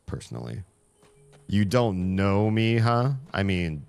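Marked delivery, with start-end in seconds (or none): 1.5-3.1 mock offended. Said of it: "I'm just kidding".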